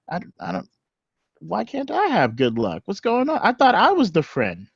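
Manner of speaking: high, indignant whine; petulant high protest; high whining protest. Acted. Vondra protesting.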